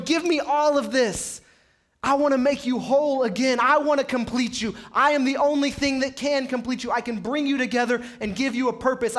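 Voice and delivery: voicing God's plea. Preacher voicing God urging the congregation to surrender. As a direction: lean in and plead as God offering wholeness.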